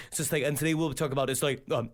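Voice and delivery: low mock vlogger voice; Varg. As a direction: drop low to imitate his droning delivery. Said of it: "he talks like this".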